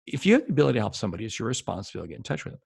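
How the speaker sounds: fast, tumbling restatement; rushed repeat. Shown as a demonstration. Coach repeating the key rule to salespeople, fast and hurried. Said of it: "here's the whole thing".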